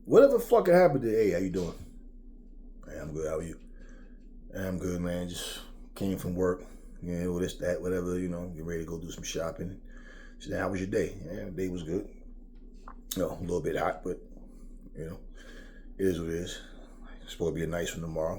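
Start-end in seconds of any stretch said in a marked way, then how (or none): 1.1-9.8 lower, softer everyday small talk; calm normal chat. Retold or imitated. 10.6-18.3 lower, softer everyday small talk; calm normal chat. Retold or imitated.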